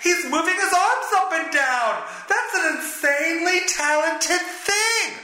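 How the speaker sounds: high, gushing mock fan voice; gushing fan impression. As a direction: squeal like an awestruck fan in the stands.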